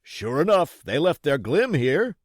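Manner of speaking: loud, high pirate call. Acted. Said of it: "said the fellow from the window".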